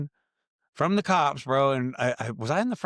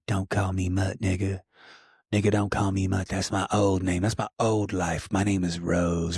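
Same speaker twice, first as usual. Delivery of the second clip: lower, slowed voice of a friend insisting on his new name; lightly voiced buddy, lower and dragging; a hint of Mutt's lower drawl; imitating Mutt; 5 semitones lower, slower than usual. Friend voiced in retold scene.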